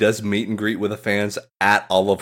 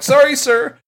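meek apology; 4 dB louder than usual. Retold or imitated. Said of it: "and then they go like".

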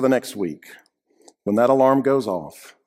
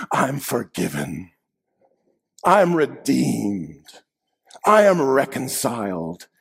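gentle relief; slower than usual. Acted. New inner voice of forgiveness.

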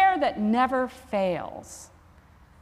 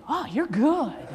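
slow, laughing through the words; slower than usual. Retold or imitated. Dying patient laughing at the chaplain's quick answered prayer. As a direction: say it amused, chuckling. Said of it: "guy turns to me, he goes".

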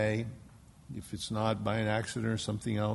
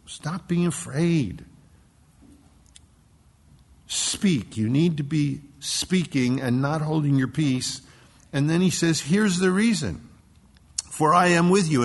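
booming divine command; 5 semitones higher, 7 dB louder than usual. Acted. The Lord commanding Paul.

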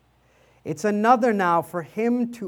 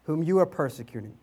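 the voice from heaven; 3 dB louder than usual. Retold or imitated. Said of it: "And the voice says".

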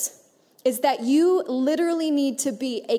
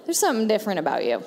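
lower, quick mutter of a remark; wrong way to say it; 5 semitones lower, much faster than usual. Shown as a demonstration. Preacher showing the congregation how not to greet a neighbor, low and quick. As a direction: rattle it off low, as a bad example. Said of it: "now don't say it like".

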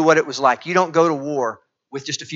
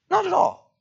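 emphatic answer. Real, not acted. Preacher answers own question emphatically.

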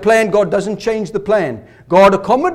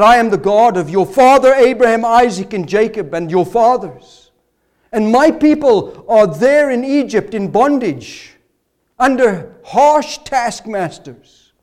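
booming, louder divine voice, slowing at the end; voice of God; 3 semitones higher, 4 dB louder than usual. Acted. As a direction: speak as God, grand and commanding. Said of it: "God introduces himself to Moses".

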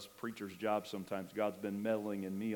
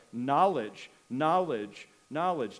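knowledge, knowledge, knowledge, each one louder and punched hard; emphatic repetition; 3 semitones higher, 7 dB louder, slower than usual. Real, not acted. Preacher pounding the word knowledge to his flock, loud and insistent. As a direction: drive the word home to the congregation.

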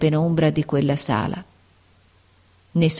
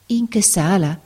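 amazed; 3 semitones higher than usual. Acted. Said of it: "ripeté la barberina maravigliata".

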